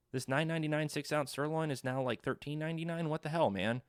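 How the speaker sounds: mildly indignant customer, pitch jumping high in disbelief; mock pissed-off customer. Customer complains about the sirloin price hike, mock pissed off. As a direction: play a put-out regular protesting. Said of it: "people are gonna be pissed".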